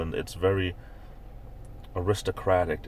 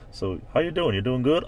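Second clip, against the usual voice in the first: high acted greeting; mock-friendly hail, pitched up; friendly greeter; 6 semitones higher than usual. Greeting a New Hampshire local, high friendly greeter. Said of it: "you say".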